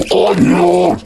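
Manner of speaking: loud, startled cry; alarmed cry. A narrator's reading. Giant realising his growth is out of control, crying out. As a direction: blurt it out in sudden alarm. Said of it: "cried Slayer".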